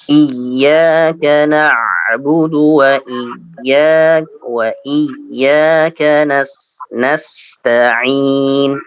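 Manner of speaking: slow chanted recitation of Iyyaka na'budu; Quran recitation. Shown as a demonstration. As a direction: recite slowly and melodically. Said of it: "teacher models Quran recitation".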